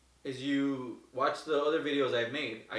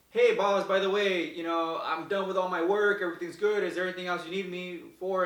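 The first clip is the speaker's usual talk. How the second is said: keen worker calling his boss, a bit louder; eager Joe calling out; 4 semitones higher, 3 dB louder than usual. Retold or imitated. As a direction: call out brightly to the boss.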